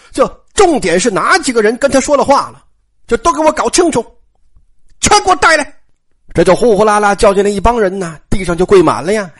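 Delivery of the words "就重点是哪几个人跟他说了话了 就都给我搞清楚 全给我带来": stern order. Acted. Jia Lian orders servants rounded up.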